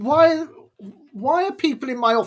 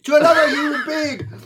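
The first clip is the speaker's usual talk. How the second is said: tearful pained plea; 2 semitones higher than usual. Real, not acted. One chip challenge, crying.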